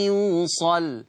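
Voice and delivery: يوصل ending on a heavy, thick لام; teacher shows the other way to stop. Shown as a demonstration. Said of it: "لو وقفت".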